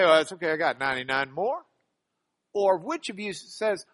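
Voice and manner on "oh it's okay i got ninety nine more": casual shrug. Acted. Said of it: "just sit back and say".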